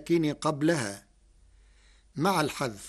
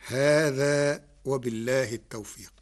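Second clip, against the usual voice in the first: whisper. Real, not acted. Closing formula whispered.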